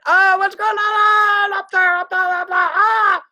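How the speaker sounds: high, slow, put-on voice calling up the stairs; mock alarmed father. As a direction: play the rattled dad yelling up there. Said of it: "'cause he goes like this".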